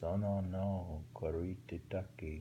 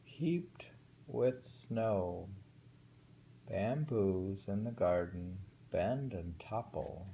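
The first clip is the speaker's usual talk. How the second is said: slow haiku reading, stretching "Heaped"; poem reading; slower than usual. Acted. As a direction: linger on each image. Reads a winter haiku.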